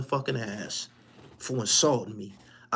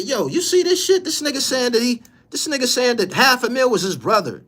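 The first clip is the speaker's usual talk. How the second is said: retold call-out; 9 semitones higher, 4 dB louder than usual. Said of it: "I said".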